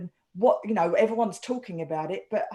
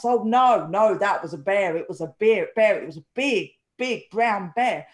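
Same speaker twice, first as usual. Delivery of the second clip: emphatic mock insistence, louder at the start; insistent retelling; 3 semitones lower, 4 dB louder than usual. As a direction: act out a neighbour who won't be doubted. Neighbour insists in retold dialogue.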